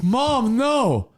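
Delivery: lightly voiced embarrassed boy; whiny kid. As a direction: beg your mom to stop. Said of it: "This one dude is like".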